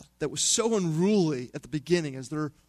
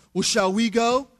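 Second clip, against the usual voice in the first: sarcastic; 2 semitones higher than usual. Retold or imitated. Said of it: "they respond with sarcasm".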